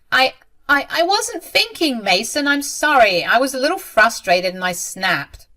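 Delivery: frightened apology. A narrator's reading. Mother stammers apology to angry son.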